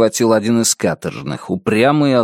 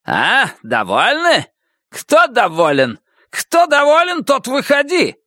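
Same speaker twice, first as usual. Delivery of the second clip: high, slow screaming officer; shrieking furious major; 13 semitones higher than usual. A narrator's reading. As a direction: shriek the accusations down the line. Major challenges prisoners.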